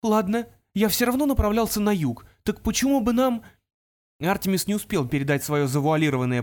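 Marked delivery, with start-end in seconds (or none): 0.0-3.4 put-on higher, eager young voice; Artemis voice. A narrator's reading. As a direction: lead toward a hint.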